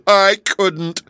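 very high, loud sobbed excuse; tearful wailing. A narrator's reading. Kangaroo explains herself to the yellow hen, wailing. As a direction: bawl first, then wail it out.

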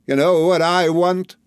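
high, slow, imperious lady; formidable aunt on the attack; fierce aunt. A narrator's reading. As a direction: demand it slowly in a high voice. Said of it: "said my aunt".

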